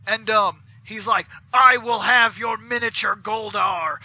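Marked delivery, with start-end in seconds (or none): 1.5-4.0 Goldar demanding. Retold or imitated. Goldar demands the figurine from the game man, lightly voiced monster. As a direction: declare it as a mock-solemn villain. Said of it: "like that".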